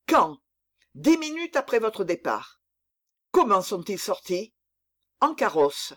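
urgent exchange, voices pressed with worry; anxious urgent dialogue. Acted. Raoul and Grimaud search for the count, anxious and urgent.

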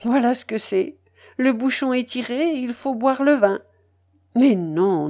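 exuberant Madame Polosov. Acted. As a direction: seal the bargain with emphatic delight. Voices elated Madame Polosov sealing deal. (dame triomphante, vive et emphatique)

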